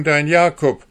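high, loud sneering echo of his words; mocking. A narrator's reading. Hanne mockingly repeating the dwarf's claim, loud scorn. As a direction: throw his own words back at him with scorn.

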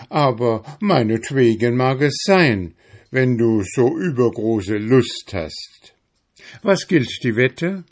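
high, scornful hare; mocking hare. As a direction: scoff at the little hedgehog. Hare accepts the bet. (spöttischer Hase, hoch)

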